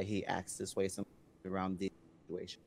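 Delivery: cutting out over the phone; choppy phone line; bad connection. Real, not acted. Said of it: "You cut out a little bit".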